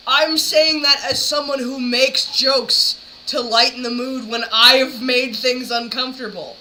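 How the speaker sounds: usual speaking voice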